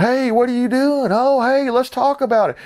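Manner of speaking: high-pitched plea to calm things down; mock girlfriend begging them to talk it over; pleading girlfriend. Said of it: "girlfriend's standing there going".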